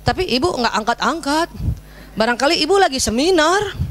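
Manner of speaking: lightly imitated small child; young child explaining. Son suggesting mother was busy at a seminar, lightly imitated child. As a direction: stretch the endings like a child explaining. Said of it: "ngomongnya gitu kan".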